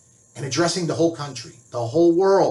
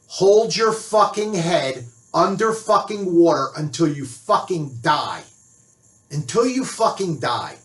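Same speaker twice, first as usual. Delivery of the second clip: slow, seething emphasis on every word; angry; 3 semitones higher than usual. Real, not acted. Ranter cursing anyone who approves of the speech, angry. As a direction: drive the curse home slowly, in real anger. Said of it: "Sorry, I'm fucking angry".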